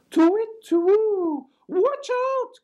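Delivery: very high, loud hooting cry; high owl voice crying a warning. A narrator's reading. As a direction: hoot it out like a startled owl. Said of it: "cried Owl".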